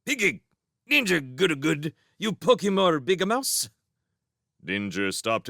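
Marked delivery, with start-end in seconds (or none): 0.0-3.7 pygmy shrew gabble. Acted. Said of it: "addressed him in pygmy shrew language".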